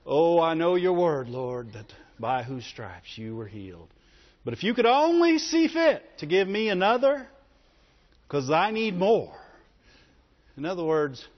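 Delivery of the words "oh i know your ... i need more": a hint of pious solemn prayer; mock a churchy, pious plea; lightly mocked pious churchgoer praying; serious religious voice. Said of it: "with the serious religious voice".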